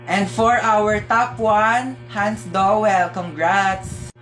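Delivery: slow, drawn-out award announcement; mock announcement. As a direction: stretch out the winner's name. Teacher announces the top student.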